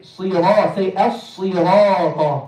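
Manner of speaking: "as-sirata" drawn out, full rounded ra; heavy ra. Shown as a demonstration. Teacher prompting a learner, "as-sirata" with heavy ra. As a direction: thicken the ra of "Sirata" and hold it. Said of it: "make sure the ra is heavy".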